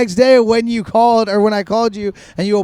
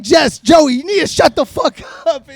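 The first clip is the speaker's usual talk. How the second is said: mock fed-up scolding, higher voice; Jess; 5 semitones higher than usual. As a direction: imitate a friend at the end of their patience. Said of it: "Jess is starting to get pissed".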